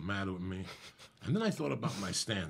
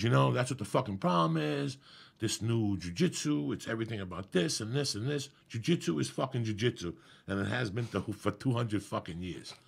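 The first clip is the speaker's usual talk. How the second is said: retold tirade; 3 semitones higher, 4 dB louder than usual.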